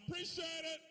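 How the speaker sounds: mock stranger hollering thanks; passer-by thanking. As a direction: call it out like a grateful stranger. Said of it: "people hollering out".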